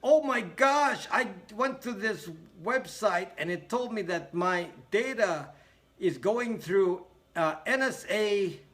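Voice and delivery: high, slow mock-alarmed voice; mock shocked Tiffany. Mocking a viewer who posted on Brax, high mock alarm. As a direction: imitate her, drawing out the alarm. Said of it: "She said".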